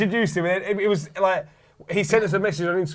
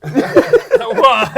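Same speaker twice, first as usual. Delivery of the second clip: shocked what; 7 semitones higher, 7 dB louder than usual. Retold or imitated. Crowd's shocked reaction retold.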